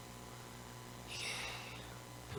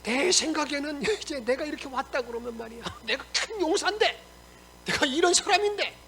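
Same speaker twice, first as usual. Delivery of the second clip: indignant boast; 4 semitones higher than usual. Acted. Naaman complains about his welcome, acted indignant boast. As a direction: act out a proud warrior's mock complaint. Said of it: "그래서 이렇게 말합니다".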